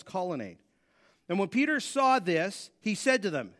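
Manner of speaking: measured, deliberate Bible reading with pauses; scripture reading. A narrator's reading. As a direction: read the passage aloud to a congregation. Reads Bible passage aloud.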